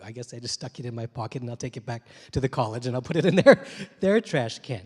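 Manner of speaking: chuckling through the words; amused, self-mocking laugh. Real, not acted. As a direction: laugh at your own awkward fix. Amused at his own predicament.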